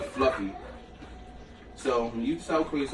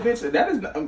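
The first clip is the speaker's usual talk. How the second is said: retold outburst; 9 semitones higher than usual. Retold grocery store argument.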